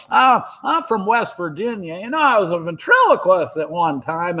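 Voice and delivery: lightly voiced older actor reminiscing; Don Knotts, serious. Old actor chatting on a couch, earnest light impression. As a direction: imitate an earnest old comic recalling his past. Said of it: "he's all serious going".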